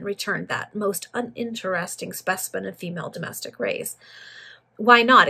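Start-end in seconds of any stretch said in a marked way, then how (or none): 4.8-5.3 louder, affronted challenge; indignant. A narrator's reading. Greenwood refused entry by servant girl, indignant. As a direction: fire it back, offended. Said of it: "exclaimed Greenwood indignantly".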